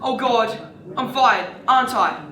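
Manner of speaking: loud, laughing realisation of doom; rueful outburst on the tail of a laugh; laughing dismay. Acted. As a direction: still laughing as it dawns on you. Expects firing after laughing at boss.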